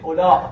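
final ā of اولا held, then glottal stop. Shown as a demonstration. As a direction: draw out اولا and cut it with hamza. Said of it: "با حالت مد تلفظ کردید". («اولا» کشیده با همزهٔ آخر)

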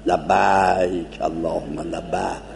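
لبیک drawn out slowly with an open a; mouth wide open. Shown as a demonstration. Teacher shows how people open their mouths on لبیک. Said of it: "دهنشون واز کنن".

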